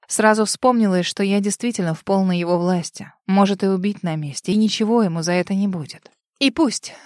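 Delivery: ordinary delivery, nothing marked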